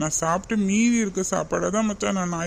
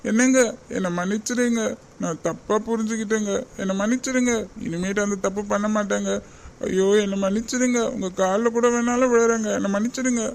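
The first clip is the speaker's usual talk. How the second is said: pleading apology; 2 semitones higher than usual. Acted. Wife begging husband's forgiveness.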